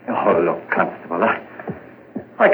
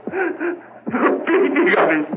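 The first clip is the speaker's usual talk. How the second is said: haunted slow line; 5 semitones higher, slower than usual. Acted. Confession ends in a slow, haunted line.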